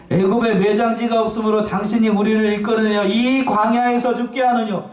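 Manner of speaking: high, insistent reproach in scripture wording. Acted. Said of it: "모세를 원망하면서 뭐라고 얘기해요?". (원망하며 높은 목소리로 따져 묻듯)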